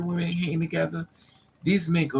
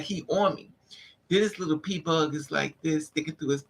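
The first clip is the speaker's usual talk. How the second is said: normal talking voice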